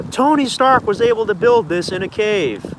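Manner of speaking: high, slow villain tirade; Obadiah Stane. Redoing the villain's movie line, slow mock outburst. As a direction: stretch it out in hammed-up outrage. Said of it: "Oh no, he says".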